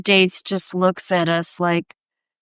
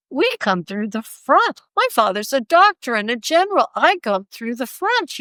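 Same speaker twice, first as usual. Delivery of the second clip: mock-grand, emphatic retold protest; haughty self-importance; 3 semitones higher than usual. Artist recalling her snobbish thoughts at the door, haughty. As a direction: proclaim it with playful hauteur.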